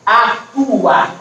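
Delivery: ATUA split as a-tu-a; separated syllables. Shown as a demonstration. Teacher showing an unaccented hiatus, atua in separate beats. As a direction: say atua with TU held apart from the final A. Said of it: "eu vou separando".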